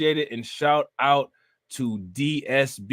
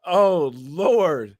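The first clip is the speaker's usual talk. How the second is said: usual speaking voice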